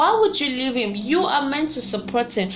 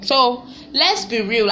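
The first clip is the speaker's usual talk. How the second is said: slow, weighty let's be real; a slow, pointed let's be real; slow emphatic; 2 semitones higher, 3 dB louder, slower than usual. Real, not acted. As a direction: lean on each word, slowly. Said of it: "slow emphatic repeat".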